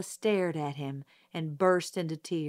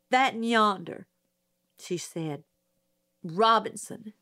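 put-on nervous country girl; 2 semitones higher, 3 dB louder than usual. Mayella identifies accused.

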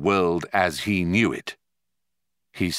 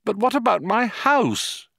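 plaintive; 13 semitones higher than usual. A narrator's reading. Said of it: "he asked plaintively".

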